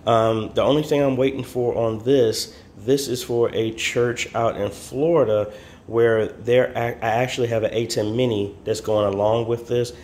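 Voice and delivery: speaking through a face mask; words muffled by a mask. Real, not acted. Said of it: "Excuse my mask".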